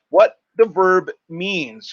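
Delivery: slow teacher repeat; slow emphatic repeat. Shown as a demonstration. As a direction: drag it out, teacher style.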